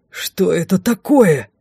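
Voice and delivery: slow, drawn-out demanding roar; restrained royal yell; king bellowing. A narrator's reading. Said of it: "проорал король".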